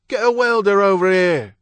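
high, loud shouted order. A narrator's reading. Someone outside calling for a welder, shouting. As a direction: yell urgently for help across the yard. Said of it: "someone outside shouted".

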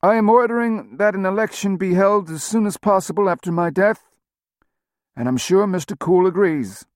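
hoarse, nasal voice of a wounded man; gravelly and nasal. A narrator's reading. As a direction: rasp through a breathing tube. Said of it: "voice was gravelly and nasal".

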